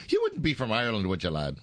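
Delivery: light mock Irish brogue; a playful stab at an Irish lilt; Irish accent. Host teasing his wife with a light Irish accent. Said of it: "practicing my Irish accent".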